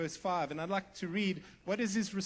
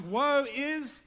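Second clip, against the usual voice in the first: louder, high cry of woe; a hint of a prophet crying out; owning lament; 4 semitones higher, 6 dB louder, much slower than usual. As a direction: confess it with full force. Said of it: "He goes".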